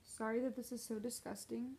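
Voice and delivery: groggy and stuffy after nose surgery; weak after surgery. Real, not acted. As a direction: speak weakly, nose blocked after septoplasty. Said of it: "I had surgery this morning".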